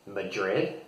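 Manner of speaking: "Madrid" said muh-DRID, the American way; American pronunciation. Shown as a demonstration. Teacher listing Spain's biggest cities, American "Madrid". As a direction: stress the second syllable of "Madrid". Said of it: "share with you the American pronunciation".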